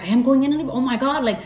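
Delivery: high, rising frantic pleading; frantic panic. Retold or imitated. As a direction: lose it completely, voice climbing. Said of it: "that was the only thing I could say".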